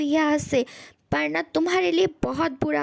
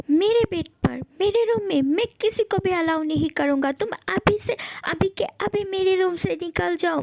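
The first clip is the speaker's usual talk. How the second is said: raised-pitch outraged protest; indignant; 3 semitones higher than usual. Acted. Ghost to intruder in their bed and room, indignant.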